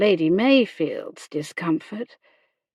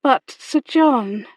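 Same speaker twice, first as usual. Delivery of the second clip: higher, louder, slow protest; tentative objection; 5 semitones higher, 5 dB louder, slower than usual. A narrator's reading. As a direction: start to object, pleading with him. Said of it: "she began".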